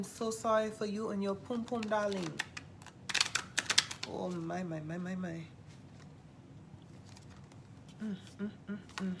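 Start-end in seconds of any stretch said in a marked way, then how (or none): 4.1-9.1 soft mock-sympathetic oh my and humming; pitying murmur. Psychic pitying an unlucky caller, soft hum. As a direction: tut quietly in mock pity.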